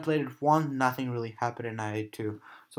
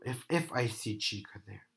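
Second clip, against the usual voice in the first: whispering; 4 semitones lower, 8 dB quieter than usual. Real, not acted. Tense whisper in horror game.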